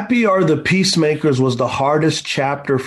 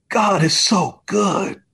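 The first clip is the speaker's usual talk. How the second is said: higher, slowly drawn-out words; awed praise; 6 semitones higher, slower than usual. Retold or imitated. Son to dad, hurt on the bench, slow awed praise. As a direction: imitate an injured son marvelling, slowly.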